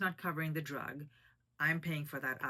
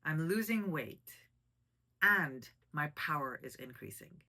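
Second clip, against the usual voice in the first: "losing weight" and "power" hit louder, pause between; louder, deliberate restatement with a pause before "and"; emphatic repeat; 4 dB louder than usual. Real, not acted. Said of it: "I'm gonna repeat that".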